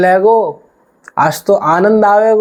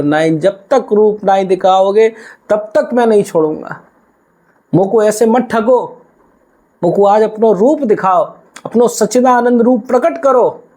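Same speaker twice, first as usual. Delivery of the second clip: 1 insistent devotee; 5 semitones higher than usual. Acted. Devotee demanding the true form.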